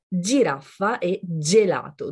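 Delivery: « Giraffa » et « gelato » avec un G doux, dj; sons G doux. Shown as a demonstration. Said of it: "Voyons des exemples". (« Giraffa » et « gelato », G doux italien)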